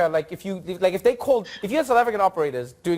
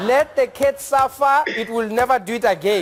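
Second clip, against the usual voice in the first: mock stern operator; 9 semitones higher, 4 dB louder than usual. Operator refusing to rescue the cat, in a high mock shout. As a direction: scold like a tough-love operator.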